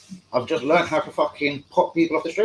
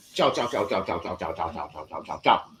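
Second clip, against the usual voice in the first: tag fading goodbye; 7 semitones lower, 6 dB quieter than usual. Pretend. Mock farewell to a blocked viewer.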